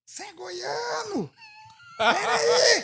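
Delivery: high, drawn-out excited call; excited shout. Retold or imitated. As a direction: yell down, thrilled to spot a fellow goiano. Worker calling from building. (grito animado e agudo de reconhecimento)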